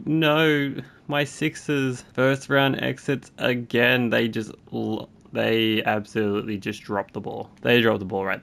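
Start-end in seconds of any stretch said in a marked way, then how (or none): 0.1-4.1 dismayed groan. Real, not acted. Team losing in the playoffs.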